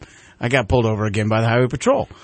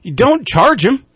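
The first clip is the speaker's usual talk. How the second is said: much higher, slowing to lay down the rule; Chris Rock impression; 11 semitones higher than usual. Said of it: "He goes".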